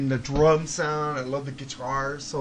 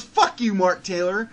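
imitating a rude insult; 3 semitones higher, 6 dB louder than usual. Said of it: "that motherfucker goes".

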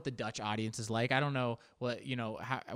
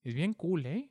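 lightly voiced Spanish speaker saying es bien cool; Spanish accent, relaxed es bien cool; Spanish speaker imitation. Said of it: "people in Spanish go".

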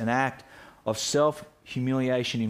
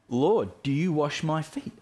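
shocked question; 4 semitones higher than usual. Retold or imitated. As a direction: LORD lifted with a rising, startled question. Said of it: "It's, it's shock, it's shame".

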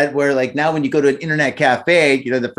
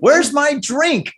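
put-on high, slow silly drunk voice; mock drunk voice; 11 semitones higher, much slower than usual. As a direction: whine it like a drunk. Mock quote of suspect.

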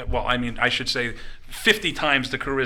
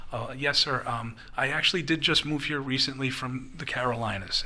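lightly imitated polite kid, softer voice; very respectful; 3 semitones lower, 7 dB quieter than usual. Young waiter answering Tommy Rich, very respectful imitation. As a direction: answer softly and deferentially, hesitant at the start. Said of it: "So the kid very, very respectfully goes".

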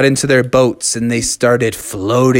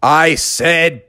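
stern order; 4 semitones higher, much slower than usual. Acted. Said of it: "And Father Frog said".

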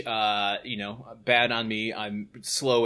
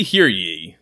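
lower, loud second call; town crier; 5 semitones lower, 8 dB louder than usual. Acted. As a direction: bellow it like a herald. Medieval ad read as decree.

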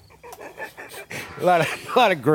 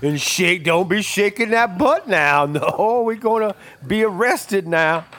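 mock coaxing; 5 semitones higher, much slower than usual. Same coaxing voice continues.

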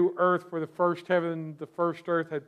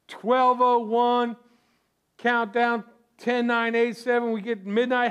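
new year countdown crowd; 4 semitones higher, 3 dB louder than usual. Pretend. Counting down to midnight.

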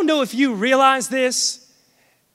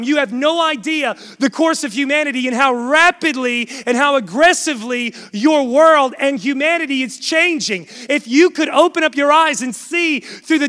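driving, emphatic preacher delivery; forceful preaching; 4 semitones higher, 3 dB louder than usual. Real, not acted. Preacher warning the church how fast the world changes, forceful. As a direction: preach it urgently, punching the key words.

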